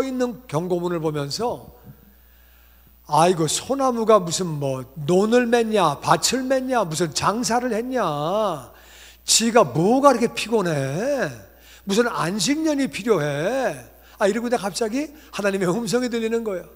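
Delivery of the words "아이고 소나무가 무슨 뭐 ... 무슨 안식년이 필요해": loud, slow, indignant grumbling at the pine trees; a loud, slow, put-out grumble at the sign; grumbling complaint. Retold or imitated. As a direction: huff and complain, dragging the words out.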